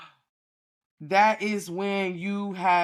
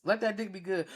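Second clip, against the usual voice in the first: mock whimper; 2 semitones higher, 4 dB quieter than usual. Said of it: "Don't act like y'all ain't".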